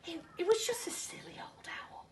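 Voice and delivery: unvoiced nervous whisper. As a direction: whisper to calm yourself. Hushed tent after fright.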